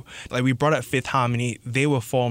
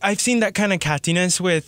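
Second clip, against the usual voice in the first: slipping into an English accent, higher; 5 semitones higher than usual. Real, not acted. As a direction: let a bit of English accent creep in. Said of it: "I have a bit of an English accent there".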